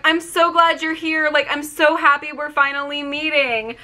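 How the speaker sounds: high-pitched imitation of a happy greeting; retold delight. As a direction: gush as the star meeting her fan. Star's joy at meeting, retold.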